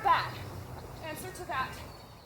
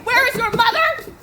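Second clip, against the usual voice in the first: loud, laughing mimicry of the nurse; exasperated teasing, louder; mocking laugh; 5 semitones higher, 10 dB louder than usual. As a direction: throw her words back, laughing. Juliet mocks nurse's reply.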